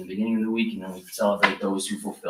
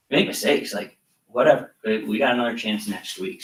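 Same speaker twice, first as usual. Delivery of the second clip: upbeat reassurance; 4 dB louder than usual. Retold or imitated. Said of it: "I always tell people".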